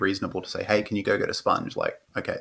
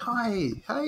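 very high, pitched-up clownish cheerful voice; 5 dB quieter than usual. Showing how a parent distracts a crying child: imitating clownish talk to a child. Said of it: "almost clownish in a way to sort of entertain them".

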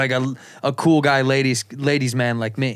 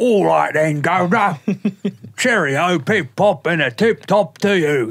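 put-on British accent, done for show; 4 semitones higher than usual. Asked what their British accent is, answering with a British accent. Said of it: "What's your British accent?".

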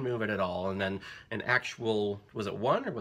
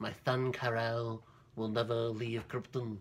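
put-on lisping voice, softer. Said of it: "he definitely does like this in the movie".

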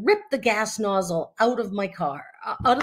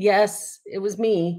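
usual speaking voice

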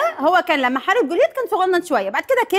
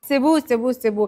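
usual speaking voice

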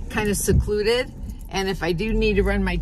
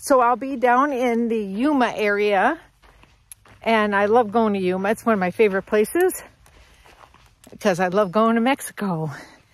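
breathless, puffing, winded talk. Talking about heading down to Yuma tomorrow, a little out of breath. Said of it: "I'm getting a little out of breath".

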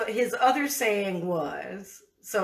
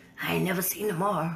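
put-on rushed, rasping old grandfather voice; 3 semitones lower than usual. Retelling what granddaddy used to say, imitating his raspy voice. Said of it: "he had this kind of raspy voice".

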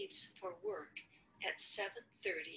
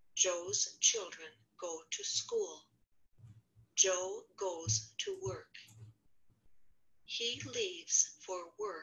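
very low, word-by-word delivery; 9 semitones lower than usual. A student reads a first-level passage aloud: reading word by word. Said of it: "she was reading sort of word by word".

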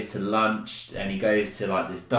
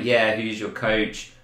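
put-on half-laugh, speech broken by laughing. Speaker retells a film scene where a bully taunts Icebox, imitating a half-laugh. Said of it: "he's sort of laughing like".

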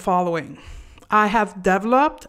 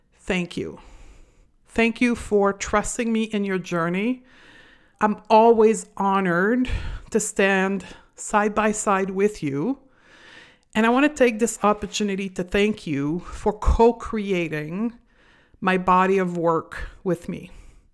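emotional, touched and heartfelt voice. Thanking clients and students for trusting the work: emotional while speaking. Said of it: "I'm emotional as I'm saying this".

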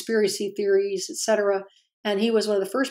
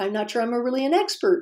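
pitch climbs on the final expert; 3 semitones higher than usual. Explaining a vocal pattern women sometimes use, demonstrating it: rising uptalk at sentence ends. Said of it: "have their sentences go up at the end".

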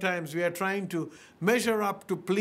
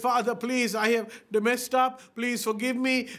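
acted sobbing and begging, higher pitch; 4 semitones higher than usual. Speaker retelling the son's plea to his father in the story, acting out sobbing and begging. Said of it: "he sobbed and he begged and he said".

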